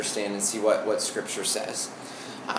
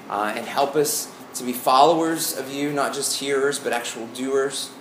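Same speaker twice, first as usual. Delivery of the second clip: prayer. Acted. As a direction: pray it sincerely and gently. Leads a prayer.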